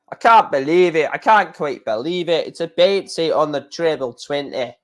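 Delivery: badly faked Scottish commentator; Scottish-accented darts commentary, roughly done; attempted Scottish accent. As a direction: have a poor go at a Scottish accent. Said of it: "I can't do a Scottish accent".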